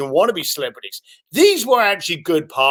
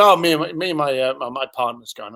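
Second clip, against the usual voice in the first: monotone; 5 semitones lower, faster than usual. Retold or imitated. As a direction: stumble through it without excitement. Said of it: "monotone, no excitement".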